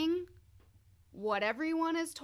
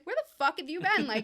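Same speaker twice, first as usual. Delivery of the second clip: retold angry outburst, higher and louder; pissed off; 7 semitones higher, 7 dB louder than usual. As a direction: demand it like a betrayed sibling. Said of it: "I was pissed in the dream".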